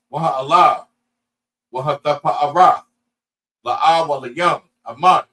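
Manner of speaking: measured phrase-by-phrase prayer with rise-and-fall tune; solemn liturgical recital in Hebrew; Hebrew prayer recitation. Real, not acted.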